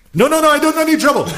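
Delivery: high, rushed mock panic; panicked plea. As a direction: gabble it like a scared drunk. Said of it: "drunk guy pleading with cop".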